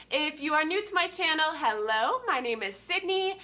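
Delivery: stuffy blocked nose voice; congested voice. Real, not acted. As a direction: talk through a congested nose. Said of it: "I'm pretty congested right now".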